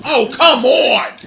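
loud, slow complaint; exasperated groan-shout. Real, not acted. Move fails again, slow loud exasperation. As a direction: drag it out in frustration. Frustration at game.

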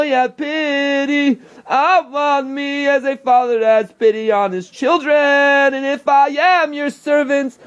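pleading, earnest prayer to God; a lone worshipper begging God for mercy, fervent prayer. Real, not acted. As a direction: pour your heart out to heaven in prayer.

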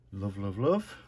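ordinary talk, nothing marked

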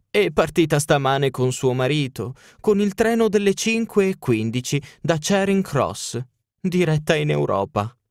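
high, mocking old woman's voice; old housekeeper. Old housekeeper telling Holmes her mistress fled, high and mocking. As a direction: deliver the bad news with relish.

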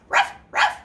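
voiceless little ruff ruff; dog bark. Pretend. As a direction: bark it out like a puppy. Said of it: "A dog says".

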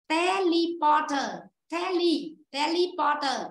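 "teleporter" with lee as second syllable, not le; vowel model. Shown as a demonstration. Teacher warns class against E, models "teleporter" with lee. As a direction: say "tele" as TEH-lee, slowly at first. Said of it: "chúng ta không đọc ra âm E".

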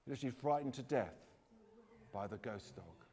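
measured telling, pausing between phrases; ghost-story narration. Acted. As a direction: let the grim ending land in short pieces.

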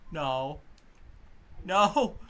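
sharp yelled no. Real, not acted. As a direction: yell it in protest. Refusing, being carried off.

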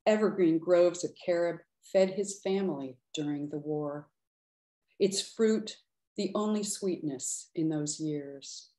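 measured, unhurried poetry reading; poem reading. Acted. Poet reading her poem for Paolo to an audience, measured. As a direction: linger on the images with pauses.

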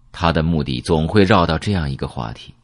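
ordinary delivery, nothing marked

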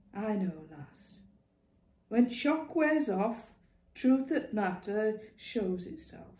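lightly voiced old woman, comforting; a hint of a wise old Lancashire mother; old northern woman. Ma comforting Clara about her grief, gently.

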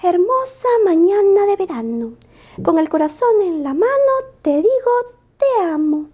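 declamado agudo y fuerte, muy sentido; recítalo con el corazón en la mano; poema declamado. Acted. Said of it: "escribió". (Lupo declama su poema de amor, emocionado)

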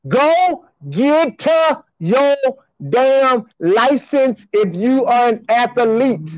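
slow, word-by-word command to viewers; emphatic order. Real, not acted. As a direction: spell it out slowly, word by word.

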